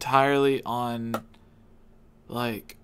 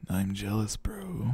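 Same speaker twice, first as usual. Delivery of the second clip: whisper; 4 semitones lower, 6 dB quieter than usual. Real, not acted. Jealous aside, whispered.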